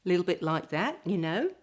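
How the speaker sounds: a hint of Australian rising intonation; Australian-style uptalk. Shown as a demonstration. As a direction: lightly imitate Australian upspeak, lifting "that" and "know". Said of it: "it might be a little bit Australian".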